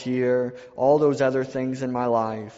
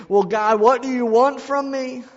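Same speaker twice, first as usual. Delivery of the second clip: raised, louder plea to God; desperate crying out; 8 semitones higher, 5 dB louder than usual. Retold or imitated. Preacher voicing people on the witness stand, loud desperate plea. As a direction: cry out pleading what God wants. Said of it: "they're crying out".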